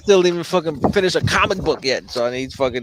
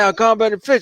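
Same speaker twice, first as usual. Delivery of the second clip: put-on Spanish accent; 7 semitones higher, 4 dB louder than usual. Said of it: "he had his thick Spanish accent".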